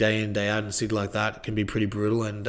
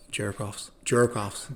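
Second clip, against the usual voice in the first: a touch of New York accent on jerk-offs; lightly done New York twang; 5 dB quieter, much slower than usual. Shown as a demonstration. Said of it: "How's my, how's my accent?".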